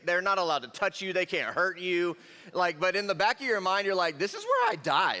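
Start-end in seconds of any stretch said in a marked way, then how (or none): 4.2-5.2 high-pitched panicked inner voice; mock panic. Teen in a haunted house fearing death, mock panic. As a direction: squeal it like certain doom, played for laughs.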